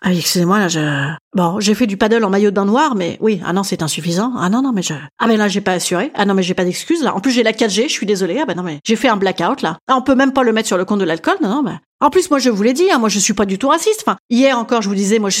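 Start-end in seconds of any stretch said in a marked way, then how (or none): 0.0-9.8 low, halting excuses; sheepish apology. Acted. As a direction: fumble through a contrite apology in a low voice. Excuses penaudes après la leçon. (excuses penaudes, voix basse)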